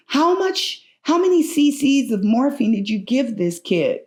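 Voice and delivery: imitating a call down a hall, high on the first words; mock yell. Nurse calling down the hall to the doctor, mock yell. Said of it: "she yells down the hall".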